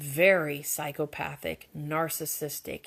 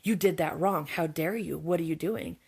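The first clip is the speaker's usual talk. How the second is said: a mock scolding, louder at the start; lashing out; 3 dB louder than usual. Boss scolding a subordinate Abby, mock angry. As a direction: snap at her like a sudden harsh boss. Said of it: "lashes out".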